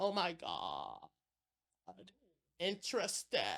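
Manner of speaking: put-on soft, creaky, swooping valley girl vocal fry. A voice teacher demonstrates vocal fry, valley-girl style. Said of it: "That's a vocal fry".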